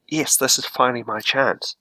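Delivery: giddy voice of an upstart vampire; lightly voiced thrill at his big chance; excited. The vampire retold as finally seeing his chance, mildly excited. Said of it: "he was excited, happy".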